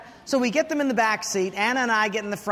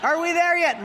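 put-on whiny kid; 7 semitones higher than usual. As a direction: drag it out like a bored kid in the back seat. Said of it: "kids nagging".

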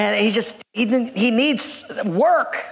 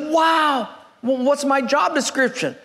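higher-pitched mock amazement; eager; 3 semitones higher than usual. New hire asks boss about job, eagerly amazed. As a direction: play the thrilled new hire. Job seeker delighted at being hired.

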